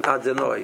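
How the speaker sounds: "Adonai" as "ah-di-NOY", weak middle vowel; wrong pronunciation. Shown as a demonstration. Rabbi repeating the faulty Name for listeners, wrong pronunciation. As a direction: reduce the o in "Adonai" to a short ih. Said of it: "not his name".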